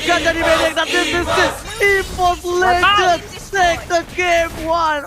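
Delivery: fighting game announcer. Real, not acted. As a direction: build the call to a triumphant shout. Caster hype on team fight.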